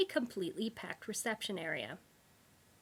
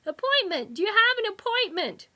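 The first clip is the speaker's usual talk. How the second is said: high, loud, stress on "have"; louder repeat; 12 semitones higher, 9 dB louder than usual. A narrator's reading. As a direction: repeat it louder for someone who can't hear. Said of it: "cupped a hand to his ear".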